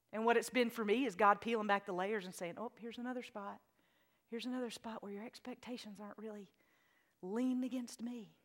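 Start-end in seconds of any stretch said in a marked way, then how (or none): 2.6-8.3 hushed, gentle voice of God; soft quiet voice. Retold or imitated. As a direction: say it softly like a gentle correction. God's voice quoted softly.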